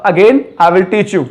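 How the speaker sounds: said very slowly and clearly; slow demo. Shown as a demonstration. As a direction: lay out each word for learners. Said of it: "teacher models the sentence". (धीरे-धीरे साफ़ बोलना)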